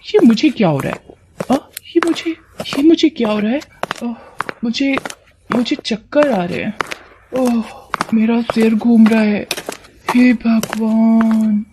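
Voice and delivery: halting, faint, dizzy voice with little moans; चक्कर से बेहाल. Acted. गौरी चक्कर खाकर बेहोश होती है. (चक्कर से लड़खड़ाती आवाज़)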